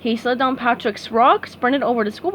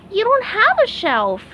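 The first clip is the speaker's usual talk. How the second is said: SpongeBob voice; 11 semitones higher, 4 dB louder than usual. A narrator's reading. SpongeBob to Patrick.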